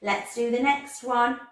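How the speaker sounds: usual speaking voice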